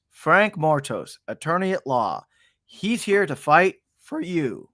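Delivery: cheesy lawyer ad voice; ad read voice. Pretend. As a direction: pitch it like a late-night lawyer commercial. And now a word from our sponsor.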